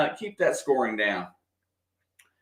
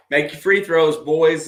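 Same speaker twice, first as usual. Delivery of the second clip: louder, urging the players on; calling out; 5 dB louder than usual. Real, not acted. Fan calling to his players at the line. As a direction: shout encouragement to the team.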